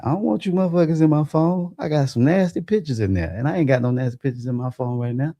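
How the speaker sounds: high, put-on frantic voice; lightly hammed-up panic, pitched high; panicked inner voice. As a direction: play your own panicked thoughts. Panicking about paramedics seeing phone.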